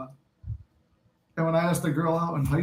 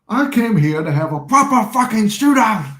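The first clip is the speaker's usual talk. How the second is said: slow, high, louder Cockney gangster line; London gangster; 7 semitones higher, 7 dB louder than usual. Retold or imitated. Legend gangster line demanding a shootout, London accent. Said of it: "Where he's like".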